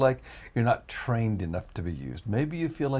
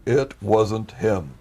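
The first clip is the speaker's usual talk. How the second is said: each word drawn out distinctly; slow and clear; 4 dB louder, much slower than usual. Retold or imitated. The Lord answering the complaining man, very clearly and slowly. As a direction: spell it out, slow and audible. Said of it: "so clearly".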